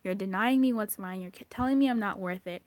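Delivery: a pushed, loud shadow-self accusation; voicing the shadow. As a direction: scold like a neglected inner self. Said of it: "your shadow is being like".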